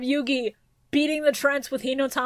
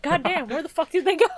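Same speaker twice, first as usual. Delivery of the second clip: laughing; 4 semitones higher than usual. Retold or imitated. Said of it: "They're just like".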